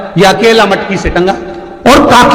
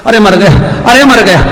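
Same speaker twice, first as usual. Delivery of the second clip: mock yell; 4 semitones higher, 3 dB louder than usual. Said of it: "पति चिल्लाए".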